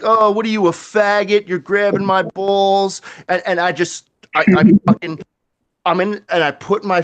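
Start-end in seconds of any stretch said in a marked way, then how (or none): 0.0-3.0 put-on drunk guy voice. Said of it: "and he's like".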